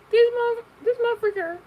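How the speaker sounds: high, loud disbelieving curse; shocked outburst. Real, not acted. Seeing her pop up in suggestions, shocked loud curse. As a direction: blurt it out in sudden shock.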